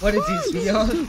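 sudden high, loud cry of disbelief; a jolted yelp of surprise; shocked outburst. Real, not acted. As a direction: blurt it out, thrown by what you see. Stunned reaction to game demo.

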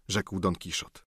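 ordinary delivery, nothing marked

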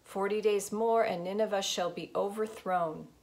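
crying out. Acted. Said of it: "he cried out".

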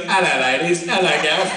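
put-on muddled grab-bag accent greeting, rising at the end; mock mongrel accent, part Scottish, English, French; Sebastian. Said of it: "I've been doing Sebastian".

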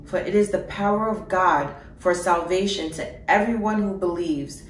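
steady, measured reading of a Bible passage; even, formal scripture reading. Acted. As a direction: read the verse with conviction. Reads scripture aloud.

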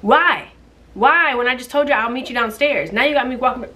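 high, loud exasperated rant; real annoyed outburst at the shopper. Real, not acted. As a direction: vent at him, voice shooting up. Ranting about annoying shopper.

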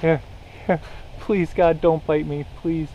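panicked pleading under breath; terrified gibbering. Real, not acted. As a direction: beg the monkey not to bite. Monkey climbing on her.

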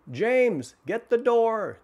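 high, loud yell. Acted. Rich man yelling at James to open the door. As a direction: yell for the driver in a panic. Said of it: "the rich man yelled".

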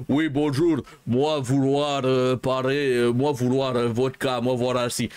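hint of a clichéd Russian accent; accent russe. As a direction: lightly mimic a cliché Russian speaking broken French. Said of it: "il fait vraiment l'accent russe". (léger accent russe cliché)

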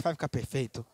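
low, soft, discouraged demo; desânimo. Shown as a demonstration. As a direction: let it sink away as if unconvinced. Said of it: "se você falar assim com desânimo". (com voz de desânimo)

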